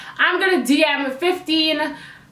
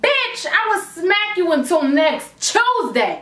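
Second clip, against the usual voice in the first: Caribbean slip; 5 semitones higher than usual. Retold or imitated. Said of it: "the Caribbean in me saying Tuesday".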